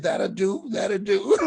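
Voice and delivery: building from eager to a loud, high cry; overjoyed. Retold or imitated. Accepting the booker's five thousand dollars, rising to a joyful shout. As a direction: burst out with disbelieving joy.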